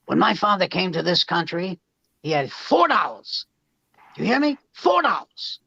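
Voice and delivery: a hint of a father hammering home his point; mock-preachy dad; father's dinner-table lecture. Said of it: "every night and go".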